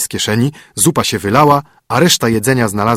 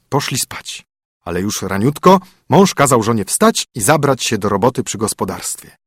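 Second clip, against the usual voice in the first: ordinary delivery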